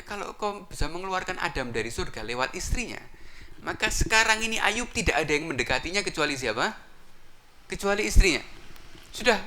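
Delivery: high, conspiratorial suggestion; scheming followers. Acted. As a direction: lay out the plan in a high voice. Followers propose tempting Ayub's wife.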